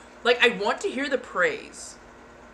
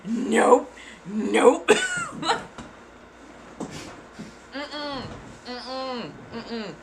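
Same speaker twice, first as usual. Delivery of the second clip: laughing nope; 3 semitones higher, much slower than usual. Real, not acted. Laughing refusal.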